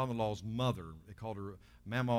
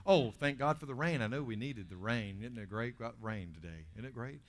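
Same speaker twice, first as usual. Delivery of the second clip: grateful; 3 semitones lower than usual. Acted. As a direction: ease down into mild appreciation. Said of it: "we need to be grateful".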